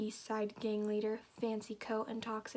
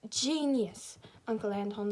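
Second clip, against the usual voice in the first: tentative try at British; lightly put-on British accent; attempted British accent. Reader trying a voice for Uncle Anton, British accent. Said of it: "do I have to do a British accent?".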